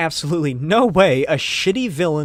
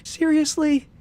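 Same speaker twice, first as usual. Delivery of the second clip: incredulous; 6 semitones higher than usual. Acted. Linda incredulous.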